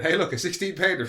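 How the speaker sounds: a light hillbilly exclaim; excited hillbilly. Retold or imitated. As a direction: show off the giant jar gleefully. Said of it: "the first line you hear from him".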